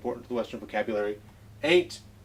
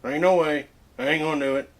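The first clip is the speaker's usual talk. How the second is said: Western drawl; 3 semitones higher, 4 dB louder, faster than usual. Shown as a demonstration. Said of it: "it's very important".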